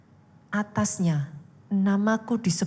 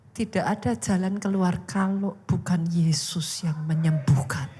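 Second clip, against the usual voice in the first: low-pitched, earnest prayer appeal; heartfelt cry; 6 semitones lower than usual. Shown as a demonstration. Preacher showing how to pray when only Jesus can heal, heartfelt cry. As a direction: demonstrate an inward cry, lower rather than shouted. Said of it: "diteriakkan dengan seruan seperti ini".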